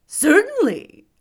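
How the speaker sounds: high, loud, drawn-out scarecrow voice; husky scarecrow. A narrator's reading. Scarecrow assuring the astonished girl he speaks, husky. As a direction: answer as a big husky straw man. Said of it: "in a rather husky voice".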